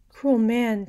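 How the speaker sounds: high, loud rebuke; reproachful cry. A narrator's reading. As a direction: cry out at a cruel man. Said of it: "cried Matilda".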